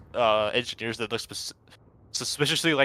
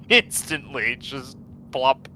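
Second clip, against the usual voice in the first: laughing; 4 semitones higher, 4 dB louder, much slower than usual. Real, not acted. Laughing at insta-suppress.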